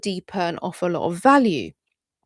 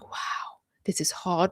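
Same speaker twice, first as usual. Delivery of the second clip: whisper; 5 dB quieter, slower than usual. Retold or imitated.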